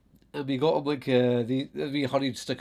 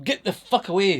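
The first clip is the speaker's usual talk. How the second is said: louder, higher yell to scare off mice; mock shout at mice; 6 semitones higher, 5 dB louder than usual. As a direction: bark it at the mice to chase them. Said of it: "So I'm shouting at them".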